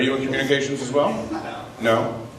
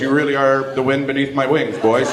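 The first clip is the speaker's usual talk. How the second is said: gushing passenger; 3 semitones higher than usual. Retold or imitated. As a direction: overdo the love for the pilots. Gushing to the pilots at boarding.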